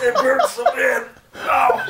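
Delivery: laughing in pain. Real, not acted. Burning nose after snorting.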